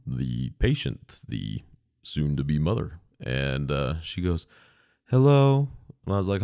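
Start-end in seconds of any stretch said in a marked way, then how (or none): 5.1-5.7 mother's hello. Retold or imitated. Mother gets on phone.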